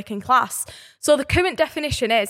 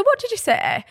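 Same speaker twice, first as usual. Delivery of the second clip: higher, offended question; indignant challenge; 10 semitones higher than usual. Retold or imitated. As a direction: dare her to repeat it. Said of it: "I said".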